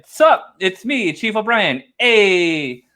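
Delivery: lightly voiced Italian-accented O'Brien greeting; casual Italian accent, only lightly put on; mock Italian accent. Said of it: "I don't know why he's Italian all of a sudden".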